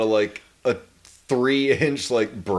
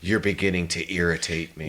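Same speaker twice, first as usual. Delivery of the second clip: low unhurried voice; 7 semitones lower, 4 dB quieter than usual. Retold or imitated. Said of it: "low, calm voice".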